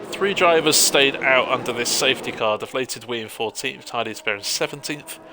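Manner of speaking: hiccups and voice cracks; hiccuping through the call. Real, not acted. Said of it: "I'm having hiccups and voice cracks tonight".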